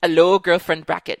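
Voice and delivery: put-on a Scottish try on "Hello, girlfriend bracket." that drifts Caribbean; badly faked Scottish, sliding toward Caribbean; bad Scottish accent. Host's second try at a Scottish greeting, drifting Caribbean. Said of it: "That was bad. ... like, Caribbean".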